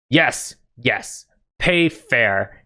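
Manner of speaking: lightly voiced, halting ogre; short, simple ogre answers with pauses between. Ogre answering Ophala about pay, lightly voiced ogre. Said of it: "this ogre looks at you".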